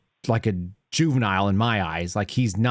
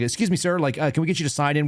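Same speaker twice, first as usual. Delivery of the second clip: polite request; 4 semitones higher, faster than usual. Retold or imitated. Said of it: "like a normal person would say".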